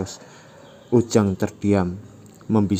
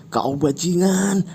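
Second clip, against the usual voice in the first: angry insult; 11 semitones higher, 5 dB louder, slower than usual. Acted. Yura insults Ujang.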